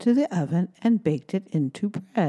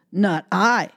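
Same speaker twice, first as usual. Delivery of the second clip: loud quacking duck; 4 dB louder than usual. Acted. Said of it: "quacked the duck".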